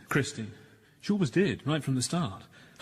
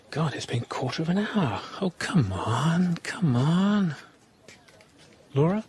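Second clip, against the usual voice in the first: higher, drawn-out exasperation; impatient waiting; 5 semitones higher than usual. Acted. Husband waiting for wife to return, impatient. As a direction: urge her on, voice rising with impatience.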